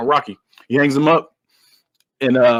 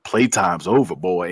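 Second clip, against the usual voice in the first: villain's threat; 8 semitones lower, slower than usual. Retold or imitated. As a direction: drop low to voice the movie villain.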